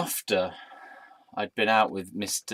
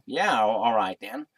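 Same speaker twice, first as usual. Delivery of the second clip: put-on American accent. Bartender agreeing to a snog, in an American accent. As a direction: say it like an American, drawled vowels. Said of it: "in an American accent".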